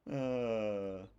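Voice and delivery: hammed-up British pub talk; badly faked Brit, playing it up; put-on British accent. Streamer joking about a drunk pub outing, mock British accent. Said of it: "I'm sorry for all the British people".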